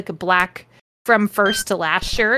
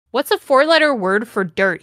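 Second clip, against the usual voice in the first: sexy voice. Acted. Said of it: "in his sexy voice".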